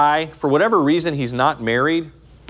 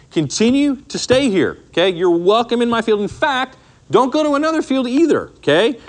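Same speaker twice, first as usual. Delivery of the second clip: voicing Boaz; 4 semitones higher than usual. Teacher voices Boaz's invitation.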